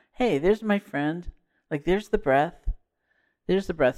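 a touch of delighted recognition; mild enthusiasm. Acted. Teacher voicing interest spotting a friend in a crowd, mildly enthusiastic. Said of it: "your enthusiasm is going".

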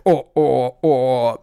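lightly voiced fretful oh oh; a hint of a fussy matron's sighing; Edie McClurg moan. Quoting Ferris Bueller's secretary, a mild fretful moan. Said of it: "a play on Edie McClurg from Ferris Bueller".

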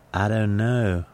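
light Carolina accent that sounds English; sample phrase of the English-sounding Carolina accent. Shown as a demonstration. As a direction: say it in a faintly English Carolina drawl. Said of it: "there's a kind of sort of".

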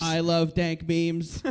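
slow robot voice saying it; flat robotic delivery. Acted. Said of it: "said that like a robot".

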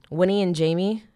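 loud, trembling voice; shaking voice. Real, not acted. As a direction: voice shaking from the cold. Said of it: "I'm sorry if my voice is shaking".

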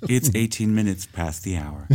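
soothing radio host delivery; public radio voice. Shown as a demonstration. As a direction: read it like a calm radio host. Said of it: "public radio voice".

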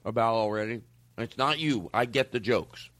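talking while chewing gum; words round a wad of gum. Real, not acted. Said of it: "I should stop chewing gum".

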